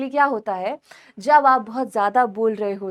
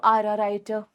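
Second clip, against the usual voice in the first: slow example sentence; 3 semitones lower, much slower than usual. Shown as a demonstration. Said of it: "मैंने बोला".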